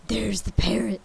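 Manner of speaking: loud, eager cry of recognition; excited cry. A narrator's reading. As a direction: call it out with delight. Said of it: "cried Scrooge".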